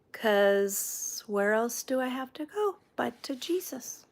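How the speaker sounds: breathy hush of a private confession; whispered. Real, not acted. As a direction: drop to a whisper, as if praying. Confessing her faith to viewers.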